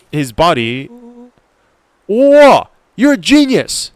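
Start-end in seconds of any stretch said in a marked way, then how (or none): 2.1-3.9 very high, loud exclamation; amazed shout. Acted. Friend amazed that the fence trick worked, shouting excitedly. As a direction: burst out in awed excitement.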